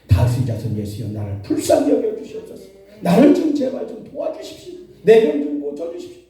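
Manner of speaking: acted desperate begging, climbing high; imitated wailing plea. Blind beggar keeps begging Jesus despite rebukes, imitated desperate cry. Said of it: "그럴수록 그는 더 큰 소리를 외쳐".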